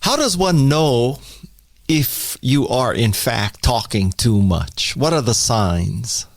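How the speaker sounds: lightly mock public-radio interviewer; a touch of formal NPR host. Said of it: "N P R kind of questions".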